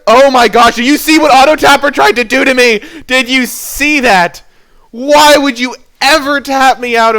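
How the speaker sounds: high, loud, fast gleeful yelling; ecstatic outburst. Real, not acted. Player gloating at opponent Auto Tapper's misplay, high loud excited yells. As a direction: crow with disbelief at the opponent's blunder.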